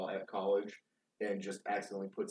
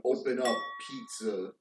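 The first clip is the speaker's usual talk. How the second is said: retold yell. Delivery guy yelling at the door. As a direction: bark it like a cop at the door. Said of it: "and yelling".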